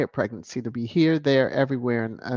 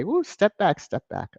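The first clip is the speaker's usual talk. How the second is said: sassy warning; 6 semitones higher than usual. Retold or imitated. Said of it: "I had to say".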